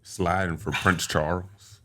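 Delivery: mock British accent. Joking British drill rap imitation.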